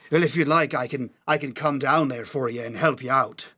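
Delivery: put-on lightly slurred drunk dwarf; drunk slurring. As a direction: slur it like a tipsy dwarf. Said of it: "in a similarly slurring, uh, voice".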